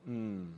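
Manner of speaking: low, soft closed-mouth mm; Australian grunt of approval. Shown as a demonstration. Preacher shows how Australians affirm him: low soft mm. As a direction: give the quiet Aussie nod of a grunt. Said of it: "heavy affirmation in Australia".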